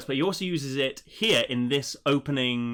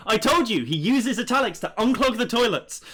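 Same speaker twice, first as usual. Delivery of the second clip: high, loud mock indignation; exasperated comic I-told-you-so; vindicated outburst; 9 semitones higher, 4 dB louder than usual. Real, not acted. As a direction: crow it, pitched well up. Triumphant callback to earlier joke.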